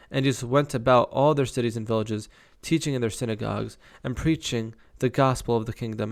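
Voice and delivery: measured Bible read-aloud; scripture reading. Acted. Reader telling of miracles to listeners, scripture reading. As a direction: read out the verses with deliberate phrasing.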